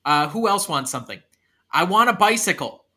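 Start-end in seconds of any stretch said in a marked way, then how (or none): 1.7-2.8 pitched-up child's demand, lightly acted; demanding kid. Kid orders a balloon animal, insistent and higher. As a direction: ask like an insistent kid at a party.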